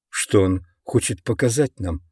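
lightly distorted, strained voice; a hint of a warped, damaged voice. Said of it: "своим искажённым голосом".

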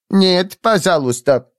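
put-on high, polite, Japanese-accented refusal; polite whistling Japanese instructor. A narrator's reading. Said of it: "вежливо просвистел он".

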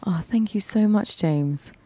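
playful British accent. Shown as a demonstration. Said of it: "your British accent".

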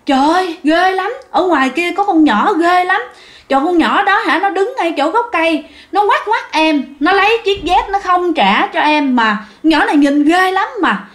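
high, panicked rush of words; terrified. Retold or imitated. Scared mason telling the officer about the girl, high panicked voice. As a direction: gasp it out as if she's still there.

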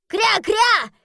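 very high squawky quack; duck quacking. Acted.

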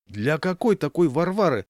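bully yelling at the host. A narrator's reading. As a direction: bawl it out to scare him. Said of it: "завопил".

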